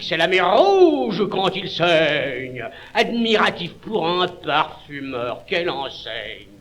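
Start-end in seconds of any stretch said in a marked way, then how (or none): 0.0-2.7 slow, dramatic delivery. Acted. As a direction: draw it out dramatically.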